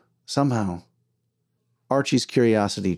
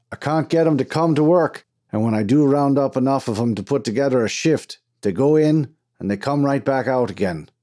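worked-up complaint, pitch raised at the start; exasperated foreman; 4 semitones higher than usual. Acted. Foreman complaining to Archie about his crew, exasperated. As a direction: gripe like a fed-up mine boss.

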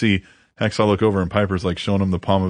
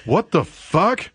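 slow, higher, laughing through the words; laughing disbelief; 7 semitones higher, slower than usual. Retold or imitated. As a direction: crack up while asking it. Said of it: "Piper's like".

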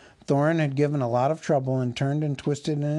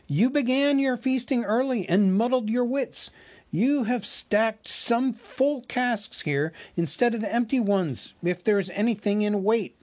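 teasing elves; 9 semitones higher than usual. Acted. Elves teasing the butler about the heavy casks, high. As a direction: tease the butler about his muddled wits.

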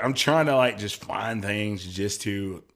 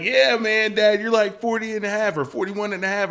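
imitating his son; 10 semitones higher, 4 dB louder than usual. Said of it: "he's like".

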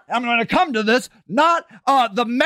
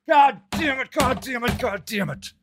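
angry curse fading to softer; exasperated curse; 2 semitones lower, 4 dB quieter than usual. Real, not acted. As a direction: spit it out, then let it die away.

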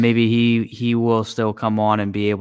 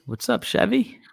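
cheerful greeting; 12 semitones higher, 3 dB quieter than usual. Real, not acted. Greeting a returning chat member.

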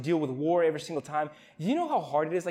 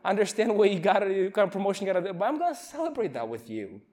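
building to an eager high promise; swelling into a heartfelt vow of loyalty; fervent friend's promise; 5 semitones higher than usual. Retold or imitated. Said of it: "people will come alongside me and like".

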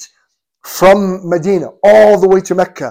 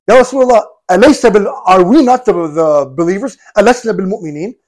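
harsh. Retold or imitated. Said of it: "was very harsh".

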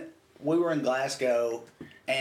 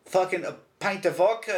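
higher-pitched mock Glasgow accent; mimicked Glasgow accent; 4 semitones higher than usual. Smart-ass customer answers the clerk, mimicked Glasgow accent. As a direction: parrot her Glasgow accent back. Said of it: "I started doing her accent back to her".

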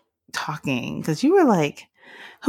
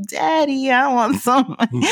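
put-on higher little-girl begging voice, laughing through it; imitating little daughter; 9 semitones higher than usual. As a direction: whine like a kid, cracking up. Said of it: "Like, walk in the room".

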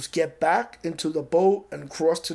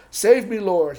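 mild shout; 3 semitones higher, 7 dB louder, slower than usual. Retold or imitated. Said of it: "he shouted".

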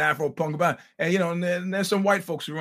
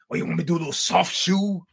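mocking quote; faster than usual. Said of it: "like Dave Chappelle says".

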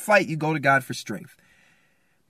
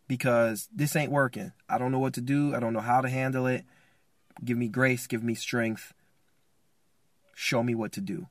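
low, soft plea for help; humble prayer; 5 semitones lower, 5 dB quieter than usual. Acted. Man praying to God for strength, quiet and humble. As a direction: pray it quietly, voice sinking lower.

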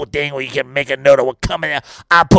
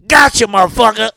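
ambush gotcha; 5 semitones higher, 4 dB louder than usual. Acted. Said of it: "This defense is gonna be".

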